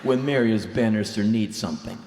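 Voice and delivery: hammed-up, forceful declaration; big mock-grand delivery; mock-heroic boast. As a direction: proclaim it like a self-styled hero. Mock-heroic boast about himself.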